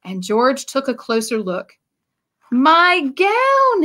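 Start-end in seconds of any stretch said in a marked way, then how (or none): 2.5-3.8 mild happy shout. A narrator's reading. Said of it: "he yelled".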